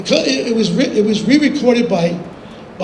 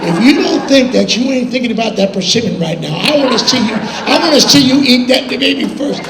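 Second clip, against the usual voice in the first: louder, higher mock insistence; emphatic, raised-voice retort; wary retold challenge; 4 semitones higher, 4 dB louder than usual. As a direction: act out a friend calling the bluff. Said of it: "He says".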